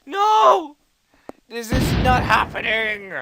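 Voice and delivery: high, desperate cry of defeat; anguished yell. Real, not acted. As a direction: yell it out in disbelief. Losing units in battle, yelling.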